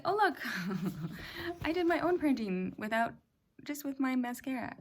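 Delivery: high, loud, laughing exclamation; retold delight. Showing viewers the accidental mascara print on a Kleenex, delighted. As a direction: re-enact your delighted discovery, laughing midway.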